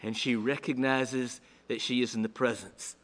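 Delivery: hushed, whispered narration; awed whisper. A narrator's reading. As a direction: whisper it in awe. Awe at the resurrected Lord.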